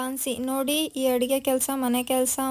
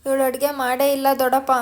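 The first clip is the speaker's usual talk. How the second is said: louder and fast, blurting it out; loud accusation; 7 dB louder, faster than usual. Retold or imitated. Pallavi tells her uncle Jhansi never cooked, loud and fast. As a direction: shout the accusation quickly, like exposing a cheat.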